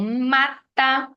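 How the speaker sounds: "mata" said slowly, weight on "ma"; teacher picking out the "ma" in "mata"; stress on MA. Shown as a demonstration. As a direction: stretch the first syllable of "mata". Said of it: "é a penúltima".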